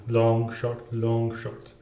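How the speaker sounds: "Long" leaned on, "short" left light, like a poem's metre; long-short verse rhythm. Shown as a demonstration. Piano teacher demonstrating the long-short accent pattern, in steady metre. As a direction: chant "Long, short, long, short" as heavy and light beats. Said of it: "That's what he says".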